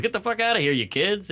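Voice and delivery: high, yelled mock rage at kids; mock angry yell. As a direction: play the angry bank guard chasing skaters off. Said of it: "the guy comes out and goes".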